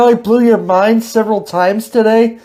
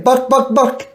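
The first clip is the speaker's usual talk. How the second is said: imitating chicken; 3 semitones higher than usual. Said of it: "You're a chicken".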